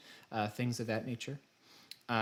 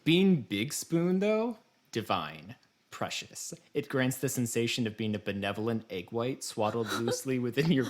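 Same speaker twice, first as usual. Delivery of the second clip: dramatic reading. Shown as a demonstration. Host reading part two to cohost, hammed-up reverent reading. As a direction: read it like a hammed-up sacred hymn of praise. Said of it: "I present to you part two".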